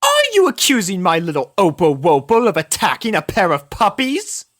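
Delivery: high, loud, outraged lady voice; Rarity outraged at the accusation; indignant Rarity. Acted. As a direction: take offence on behalf of her cat. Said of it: "indignation and outrage".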